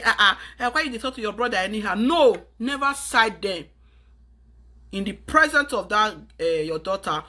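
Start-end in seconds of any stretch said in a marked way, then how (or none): 0.0-2.0 quick laughing dismissal with a fast chuckle; laughing indulgent scolding. Retold or imitated. Mother siding with son, laughing rushed scolding of daughter. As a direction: brush it off with a laugh, rushing the words. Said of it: "start siding him and say".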